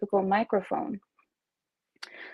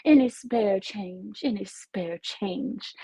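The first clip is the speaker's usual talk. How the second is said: mock beggar; much slower than usual. Birthday streamer jokingly begs chat, slow pleading beggar. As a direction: rattle the cup and plead, slowly. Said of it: "shake my little cup ... and say".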